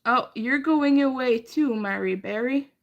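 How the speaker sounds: loud mock-cheery goodbye; sarcastic farewell. Real, not acted. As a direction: taunt them as they leave. Mocking departing chat troll.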